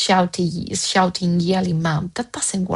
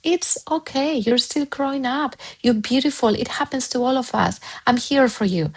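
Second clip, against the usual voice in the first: tender, hushed reassurance; comforting parent; 3 semitones higher than usual. Retold or imitated. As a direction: gently reassure a child who apologises. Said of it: "you tell them".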